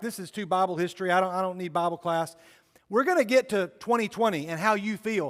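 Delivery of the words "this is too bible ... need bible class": usual speaking voice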